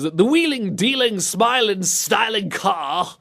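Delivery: high British flourish, slowing at the end; British game villain voice. Acted. Host reading listener's message, hammed-up British game voice. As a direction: stretch out the British rhyme grandly. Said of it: "in response to that Twisted Metal three voice".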